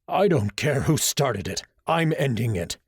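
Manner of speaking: slow, firm menacing teacher; a bit scary. Acted. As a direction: lay down the law slowly. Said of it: "sounding a bit scary".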